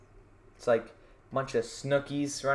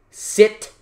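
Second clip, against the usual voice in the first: barked order; 5 semitones higher, 9 dB louder than usual. Retold or imitated. Comic echo of manager order.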